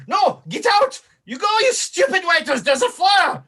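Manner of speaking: put-on high-pitched, loud French-accented shouting; panicking French chef. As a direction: shriek orders at waiters as a hammed-up chef. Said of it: "he's freaking out".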